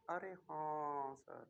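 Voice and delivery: low, slow, drawn-out student voice; mock student reply. Teacher mimics class agreeing, in a low drawl.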